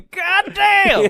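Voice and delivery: high, loud vendor curse; stadium vendor hawking. Pretend. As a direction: bellow it as the vendor. Vendor bit again.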